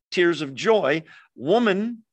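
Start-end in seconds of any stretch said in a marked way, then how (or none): 1.4-2.0 "Woman" said with a lifted, courteous rise; a polite, honouring "Woman"; respectful address. Shown as a demonstration. Angels addressing Mary respectfully. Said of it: "which is a respectful address".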